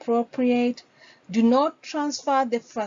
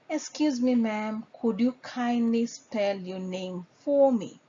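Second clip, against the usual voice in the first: polite request. Shown as a demonstration. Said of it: "you may ask".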